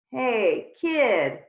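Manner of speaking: loud call to stop him. Acted. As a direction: call after the boy who turns to run. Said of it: "called Tarantula".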